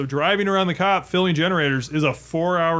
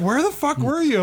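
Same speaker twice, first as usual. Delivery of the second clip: mock annoyed sergeant; 10 semitones higher than usual. Angry NCO quoted.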